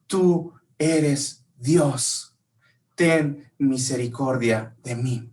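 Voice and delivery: very slow, solemn pleading; slow reverent plea. Retold or imitated. Bartimeo confesses Jesus as God and pleads, very slow. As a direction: plead with every word weighed. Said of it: "Bartimeo le estaba diciendo".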